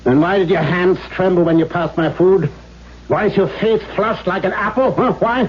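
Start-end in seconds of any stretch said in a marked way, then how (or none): 3.1-5.5 taunting questions through a laugh; mocking laugh. Father mocking his daughter's flushed face, laughing. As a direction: laugh at her as you press her.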